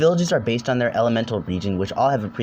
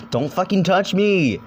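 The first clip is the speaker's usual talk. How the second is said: angry yell; 7 semitones higher, 3 dB louder than usual. Acted. Tahu ambushed, angry yell.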